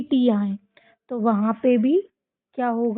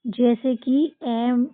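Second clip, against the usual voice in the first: slow teaching emphasis; much slower than usual. Shown as a demonstration. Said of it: "B का rule बताती हूँ".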